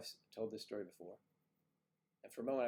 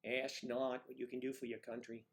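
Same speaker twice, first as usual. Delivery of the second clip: JFK impression. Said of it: "You sound like J F K".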